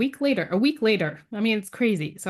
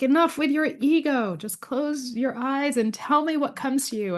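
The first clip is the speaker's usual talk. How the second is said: higher-pitched, insistent instruction; impatient teacher; 6 semitones higher than usual. Retold or imitated. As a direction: imitate a mentor cutting off objections. Retells healer's impatient instruction.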